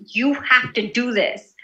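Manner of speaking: controlled, mildly threatening order. Shown as a demonstration. Teacher putting a finger in your face, mildly threatening. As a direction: say it like a finger in their face, without raising the voice. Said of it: "so you can feel a threat".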